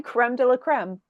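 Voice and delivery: creme with short 'eh', as 'krem'; French-style creme. Shown as a demonstration. Questioning accepted French phrases, creme said as 'krem'. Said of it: "we say".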